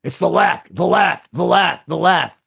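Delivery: lightly mimicked host chanting his target; mock a ranter stuck on repeat, in even bursts; Alex Jones impression. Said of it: "I'm listening to him".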